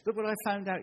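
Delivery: excited high shout of discovery; loud, high, overjoyed cry. Retold or imitated. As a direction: yell it out like a thrilled discovery. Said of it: "and he shouted".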